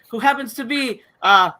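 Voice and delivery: slow, put-on Australian accent, lightly done. Host hands over to co-host in mock Australian accent. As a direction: drawl it like an Aussie, half joking. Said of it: "That's my Australian accent".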